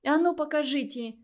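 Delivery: snatch it from him with your voice; furious girl demanding the notebook; angry demand. A narrator's reading. Zherekhova grabs at the notebook.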